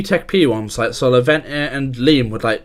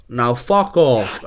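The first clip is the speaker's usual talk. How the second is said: slow, drawn-out Terminator-style dismissal; a hint of slow action-movie robot; Terminator impression; 4 semitones lower, much slower than usual. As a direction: lightly imitate a Terminator voice, drawing each word out. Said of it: "he sounded like the fucking Terminator".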